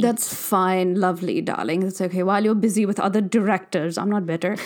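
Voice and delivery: light posh drawl, slow, darling after darling; a hint of a snooty fashion editor; lightly voiced posh fashion insider asking her friend; posh fashionista accent. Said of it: "I'm done with that accent".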